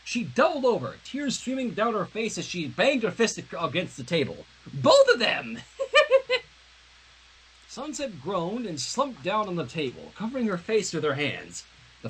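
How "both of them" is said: high, loud laughing shout; howling laughter. Acted. Rainbow Dash laughing at Sunset. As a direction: cackle through the words. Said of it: "howled with laughter".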